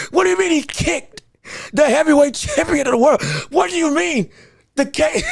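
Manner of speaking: can't believe what just happened; incredulous. Real, not acted. Incredulous at imagined knockout.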